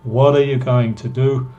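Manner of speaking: "What are" blended into one reduced syllable; contracted what are. Shown as a demonstration. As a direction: run "what are" together smoothly. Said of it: "Escucha de nuevo". ("What are" contraído al hablar)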